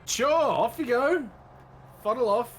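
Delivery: high, loud send-off to a captive; loud, acted warning off; stern dismissal.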